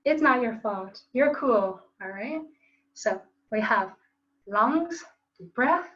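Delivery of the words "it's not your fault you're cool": louder, upbeat self-reassurance; loud cheerful affirmation. Shown as a demonstration. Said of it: "give yourself a little snap, say".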